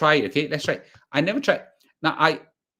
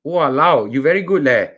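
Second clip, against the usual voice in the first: impressed exclaim; 6 dB louder than usual. Real, not acted. Impressed by AI's Singlish.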